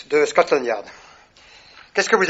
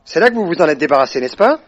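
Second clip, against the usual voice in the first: hard accusation; 6 dB louder than usual. Acted. Inspecteur accusing the suspect.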